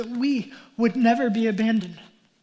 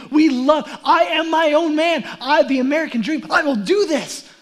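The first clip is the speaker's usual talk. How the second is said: louder, emphatic preacher; preaching at full force; 4 dB louder than usual. Real, not acted. Preacher warning the congregation about sin, forceful. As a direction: drive it home to the congregation.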